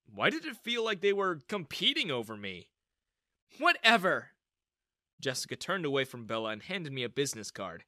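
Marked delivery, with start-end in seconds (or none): 3.6-4.3 dismissive. Acted. Mother dismisses daughter.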